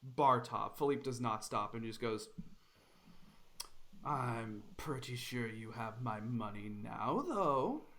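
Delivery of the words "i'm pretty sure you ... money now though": menacing bandit. Acted.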